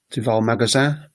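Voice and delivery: "Tu vas au magasin" with "magasin" rising; French question intonation. Shown as a demonstration. Teacher giving a French example, "Tu vas au magasin" as a rising question. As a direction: lift the last word of "Tu vas au magasin". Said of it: "part of the sentence that goes up".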